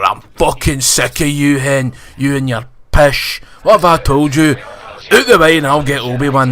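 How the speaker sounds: loud, fed-up Scottish scold; Grand Inquisitor loudly scolding Reva; mock scolding. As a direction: tell her off like a weary boss.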